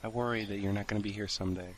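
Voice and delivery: a hint of a clingy sleepy child; mock scared whimper. Continues clingy role voice.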